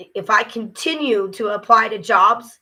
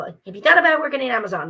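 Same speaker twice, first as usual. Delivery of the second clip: fast, higher mock question; mocking imitation; 5 semitones higher, 4 dB louder, faster than usual. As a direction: parrot a nagging questioner in a hurry. Sick of people asking her this.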